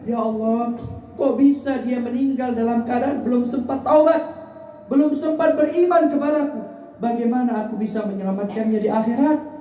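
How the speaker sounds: high-pitched pleading, voiced for the Prophet; retold tearful lament. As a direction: grieve aloud over a soul unsaved. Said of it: "Nabi nangis".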